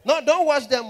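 very loud and high: No, don't wash them; mock mother's shout. Mother scolding her child, in a loud high mock yell. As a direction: shout it like a furious African mother. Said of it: "she mean the opposite".

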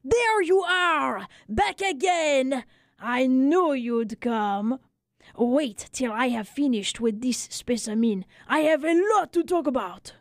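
high, slow, glad greeting, lightly voiced barber; delighted French barber. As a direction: welcome an old friend back, overjoyed. Barber greets returning friend.

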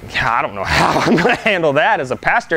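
words breaking into a nervous laugh; half-laughing, at a loss; laughing disbelief. Retold or imitated. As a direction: laugh through an overwhelmed admission. Imagining his own overwhelmed reaction.

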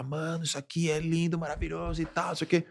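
hushed, lifted admiring quote; quoted admiration. Retold or imitated. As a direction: marvel under the breath, quoting a friend. Retells friend admiring the place.

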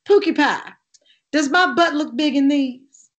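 flirt the line at Pookie Pie; lightly performed ad line; commercial line. Retold or imitated. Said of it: "My famous line in that".

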